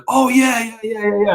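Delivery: imitating a contact's quick, delighted agreement; eager yes. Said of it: "He's like".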